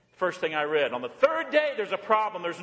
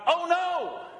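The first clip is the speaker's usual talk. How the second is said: retold mock yell; 9 semitones higher than usual. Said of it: "yell out".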